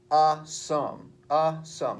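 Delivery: "A sum" with a punched "A", then a pause before "sum"; trochee stress. Shown as a demonstration. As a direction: hit the "A" in "A sum". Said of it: "the accent is on the first word".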